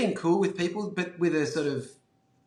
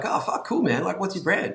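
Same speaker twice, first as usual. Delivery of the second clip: put-on impressed shop kid; 5 semitones higher than usual. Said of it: "And they're like".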